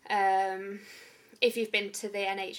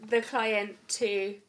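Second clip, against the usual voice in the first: laughing; 3 semitones higher, 8 dB louder than usual. Real, not acted. Laughing after the dog interrupts.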